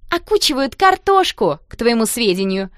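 put-on girl snapping back at the jeering boys; flaring retort. A narrator's reading. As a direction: fire it back, flustered. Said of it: "вспыхнув".

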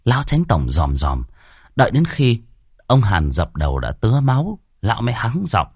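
usual speaking voice

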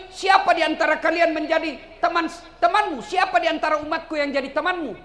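emphatic preaching. Acted. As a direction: stretch the phrases out to the crowd. Preacher recounts the Prophet's question. (ceramah lantang, lambat dan bernada tinggi)

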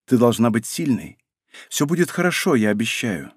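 soft, tender reassurance; mildly hushed, motherly promise; gentle soothing. A narrator's reading. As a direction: comfort a frightened child quietly. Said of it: "начала её успокаивать сидящая рядом женщина".

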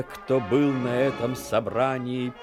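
ordinary delivery

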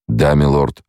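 a hint of suppressed rage, lightly voiced; barely held fury. A narrator's reading. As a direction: hold back a berserker's fury. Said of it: "едва сдерживаемая ярость берсерка".

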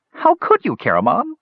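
sobbing. A narrator's reading. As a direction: wail it like a betrayed friend. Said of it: "sobbed Earwig".

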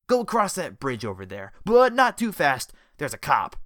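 loud, high wary thug warning; villain warning. A narrator's reading. Jellyfish warning Richard near the police, loud wary thug. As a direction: hiss a warning about the cop.

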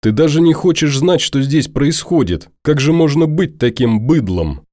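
put-on angry young woman shouting him down; furious girl. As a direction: rage at him in disbelief. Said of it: "подпрыгнула от ярости".

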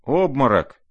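a loud, high alarmed shout. Acted. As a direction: cry out in shock. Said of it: "закричали кругом".

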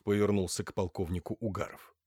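plain reading voice

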